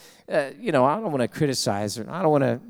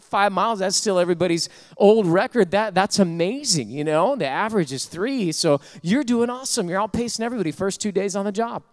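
encouraging bosses; 5 semitones higher than usual. Retold or imitated. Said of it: "They said".

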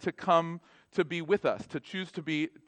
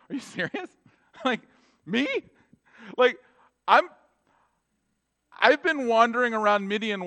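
laughing disbelief; 4 semitones higher, 4 dB louder than usual. Retold or imitated. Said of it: "he just would have laughed".

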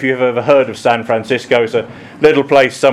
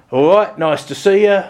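put-on higher-pitched East End London accent; imitated Cockney, pitched up; Cockney grandmother; 6 semitones higher than usual. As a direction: greet someone like a Cockney grandmother. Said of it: "Her normal voice was".

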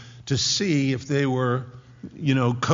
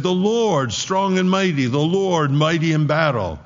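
loud, raised priestly proclamation; proclaimed answer; 3 semitones higher, 5 dB louder than usual. Acted. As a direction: call the answer back up to the wall, ringing out. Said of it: "what's getting screamed on the walls".

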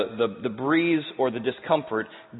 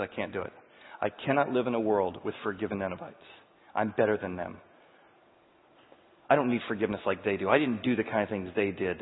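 softer, lower, smug and sulky; self-righteous Jonah; 5 semitones lower, 3 dB quieter than usual. Acted. Preacher voicing Jonah's sulky self-righteousness, softer and lower. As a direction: mutter your superiority. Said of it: "all that self-righteousness".

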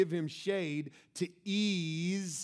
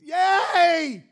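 mock cheer; 11 semitones higher, 15 dB louder than usual. Imagined happy ending, music swelling.

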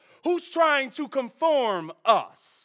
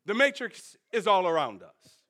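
a hint of Morpheus, low and grave; lightly voiced Morpheus, hushed and ominous; imitating Morpheus; 4 semitones lower than usual. Preacher quoting Morpheus to Neo, low and grave. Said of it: "That's how he was talking, y'all".

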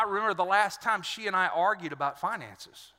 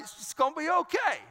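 high, put-on reassuring dad voice; cocky reassurance, pitched up; confident husband; 6 semitones higher than usual. Husband reassuring his crying wife, mock confident and high. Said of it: "and I'm like".

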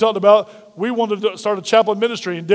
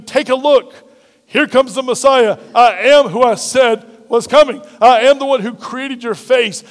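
preacher voicing Jesus. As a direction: voice Jesus announcing himself to the crowd.

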